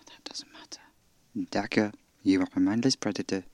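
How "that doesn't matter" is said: hushed despairing whisper. Acted. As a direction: breathe it out, barely audible. Despairing reply in drama.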